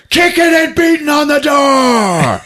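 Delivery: high, loud, drawn-out narration; shouted storytelling. Real, not acted. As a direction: holler the action as it peaks. Excited telling of door attack.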